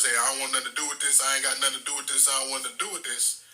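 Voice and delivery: quick, lightly mimicked nervous brush-off; imitating nervousness. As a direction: rattle it off, mildly mock-nervous. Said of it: "acted real nervous".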